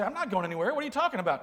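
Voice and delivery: rising puzzled retort; wife baffled at his mix-up. Retold or imitated. Wife's puzzled retort retold.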